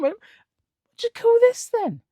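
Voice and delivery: giggling mock wobble; laughing taunt. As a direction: retell the taunt while cracking up.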